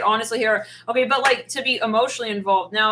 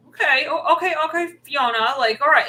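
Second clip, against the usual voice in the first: mock flustered; 6 semitones higher, 5 dB louder than usual. Acting nervous to Fiona.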